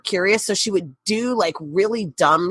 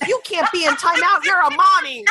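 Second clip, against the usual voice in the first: put-on high-pitched little-girl protest; mock childish indignation, pitched up; imitating indignant child; 10 semitones higher than usual. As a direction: voice a small child correcting her mom. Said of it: "And Megan goes".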